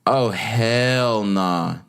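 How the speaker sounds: slow, stretched-out refusal; drawn-out disbelief. Real, not acted. Vlogger reacting to a proposal post, in drawn-out disbelief. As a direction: stretch it out, appalled at the sight.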